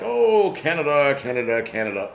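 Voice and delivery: lightly hammed-up pundit pondering Canada; mock pundit musing. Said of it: "be like".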